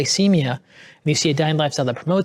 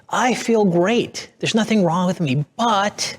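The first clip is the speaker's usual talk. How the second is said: higher-pitched, mock carefree patient insisting all is fine; 5 semitones higher, much slower than usual. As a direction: play the patient who brushes it off, pitched up. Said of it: "they tend to always come in and say".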